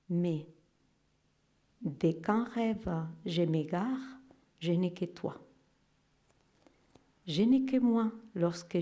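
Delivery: recited verse, swelling toward the end; poem reading. Acted. Reads a poem aloud.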